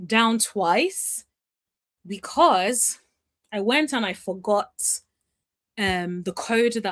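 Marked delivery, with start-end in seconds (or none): none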